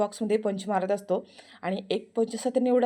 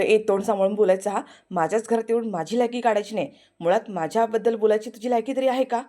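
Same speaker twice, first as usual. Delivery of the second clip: angry warning; 4 dB louder than usual. Acted. Prithvi warns her.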